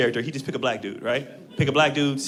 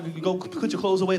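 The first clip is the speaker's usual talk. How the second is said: ordinary talk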